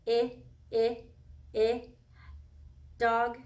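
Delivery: short "I" sound repeated, then a questioning "dog?"; comparing sounds. Shown as a demonstration. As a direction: test "I, I, I" against "dog?" with a rising question. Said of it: "Does that start the same way".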